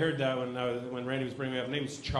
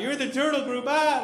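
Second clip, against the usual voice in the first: laughing; 10 semitones higher, 7 dB louder than usual. Retold or imitated. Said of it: "she's laughing".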